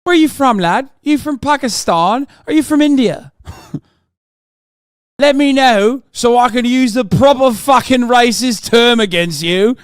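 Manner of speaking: high, loud mock British thug; British racist. Streamer mocking British racists for chat, high and loud. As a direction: ham up a sneering British racist. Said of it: "they will always, uh, go".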